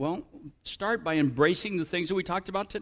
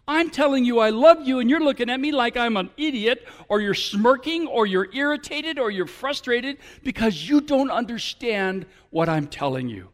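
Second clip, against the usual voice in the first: frustrated lover; 4 semitones higher, 4 dB louder than usual. Acted. Pastor acts hurt lover.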